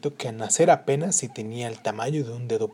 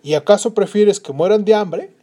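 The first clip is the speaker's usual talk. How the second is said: mortified husband; 7 semitones higher, 8 dB louder than usual. Acted. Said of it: "contestó el hombre mortificado".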